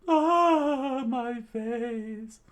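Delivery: high, loud startled cry; character voice. Acted. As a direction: yelp it high like a cartoon girl.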